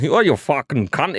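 a lighter copy of the Australian yell; Australian accent. Retold or imitated. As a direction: echo the Aussie swear in Australian accent. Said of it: "random Australian dude getting angry".

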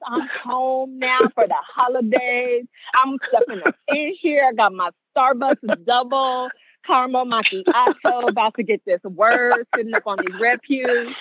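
hammed-up sophistication; self-important younger self. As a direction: show off like a grown-up home for the holidays. Mocking her self-important younger self.

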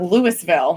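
Louisville with the s sounded, "LOO-iss-vil"; wrong pronunciation. Shown as a demonstration. Co-host shows how not to say it, Louisville as LOO-iss-vil. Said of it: "I know what it's not".

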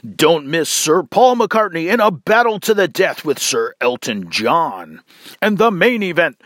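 hyped pay-per-view promo voice; a touch of a boxing promo hype; fight announcer. Pretend. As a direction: sell the big fight like a ring announcer. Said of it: "You talk about a pay-per-view extravaganza".

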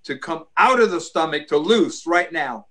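firm commanding curse on illness; laying a curse. Acted. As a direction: curse it at the root, with authority. Cursing roots of ulcers in prayer.

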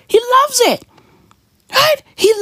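cracking up mid-rant; laughing through words. Real, not acted. Laughing at Schwab while ranting.

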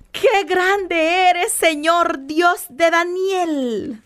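very slow, drawn-out "Qué grande eres", each word lingered over; savoring slowly. Shown as a demonstration. Preacher relishes the king's praise before the congregation, slow and awed. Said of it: "Imagínate qué lindo".

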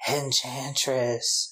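one name, slowly drawn out; sleeping woman imitated. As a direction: murmur it as if dreaming. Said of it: "she's asleep and she goes".

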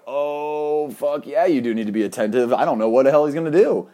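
high, rushed, emphatic reaction; retold burst of excited alarm; excited realization. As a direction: blurt it out, rising in pitch and speed. Acts out own excited reaction.

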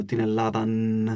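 Ελλάδαν with a drawn-out n at the end; exaggerated final n. Shown as a demonstration. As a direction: drag out the closing n of Ελλάδαν. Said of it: "Δεν λέμε, ξέρω εγώ". (παρατραβηγμένο τελικό νι στο Ελλάδαν)

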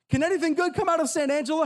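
mock skeptic. Mock skeptic echoing Nazareth.

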